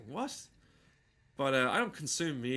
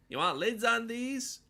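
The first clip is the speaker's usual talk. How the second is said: much higher, louder comic character voice; George Miller voice; 10 semitones higher, 4 dB louder than usual. Retold or imitated. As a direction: squeak it up like a deadpan comic asking a customer. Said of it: "He sounds kinda like that".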